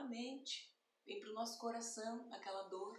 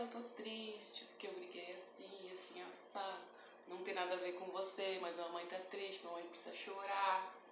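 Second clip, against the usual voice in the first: tender explanation. Retold or imitated. Mother explaining sadness to daughter.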